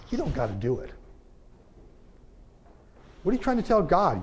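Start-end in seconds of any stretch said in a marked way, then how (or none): 0.1-0.9 mocking the denominations. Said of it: "the denominational world says".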